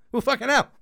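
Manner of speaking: loud, high burst of shock at the price; shocked outburst. Retold or imitated. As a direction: blurt it out, stunned by the cost.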